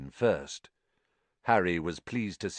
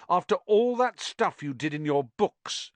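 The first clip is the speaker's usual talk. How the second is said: disbelieving; 9 semitones higher than usual. Acted. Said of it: "said Harry disbelievingly".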